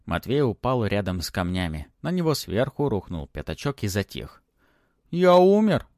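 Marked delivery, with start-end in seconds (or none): 5.1-5.9 high squeaky little dragon voice; small worried dragon, pitched up; голосок дракончика. Acted. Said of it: "спросил питомец". (писклявый голосок дракончика)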